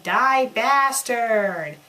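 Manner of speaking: a slow, drawn-out loud battle cry; shouting. A narrator's reading. Tinky Winky throws a grenade at Dumbledore, shouting. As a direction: stretch it out as you hurl the grenade. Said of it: "and shouted".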